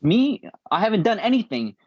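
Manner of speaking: high, mock-innocent denial; innocent protest. Director denying blame to the author, high and innocent. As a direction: play innocent, pitch up.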